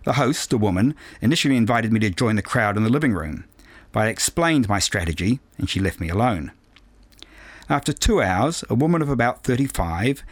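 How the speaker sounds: measured, precise audiobook reading; composed novel narration with careful phrasing; story narration. A narrator's reading. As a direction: read it aloud as a first-person story. Reads a novel aloud.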